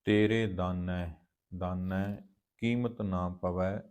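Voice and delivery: measured, drawn-out chanting of gurbani lines; slow scripture recitation. Acted. Teacher recites the hymn slowly for the students. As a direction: recite each line slowly with reverence.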